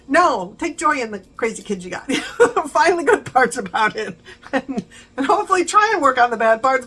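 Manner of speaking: chuckling through the words; amused, laughing advice. Real, not acted. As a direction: laugh while giving the advice.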